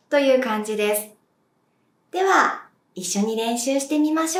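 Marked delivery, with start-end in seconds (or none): none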